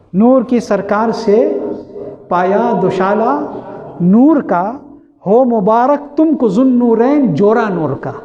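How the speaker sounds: slow, chanted couplet recital; poetic recitation. Acted. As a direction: recite the verse slowly and lyrically. Recites couplet again, drawn out.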